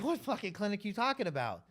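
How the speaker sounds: hammed-up furious demand; mock angry. Angry rival owners on phone.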